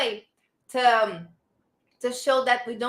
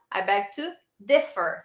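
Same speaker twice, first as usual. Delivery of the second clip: "differ" stressed on DIF, falling after; stress on first syllable of differ; 3 semitones lower than usual. Shown as a demonstration. Teacher showing where stress falls, DIF-fer in "differ". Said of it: "the stress in differ is on the first syllable".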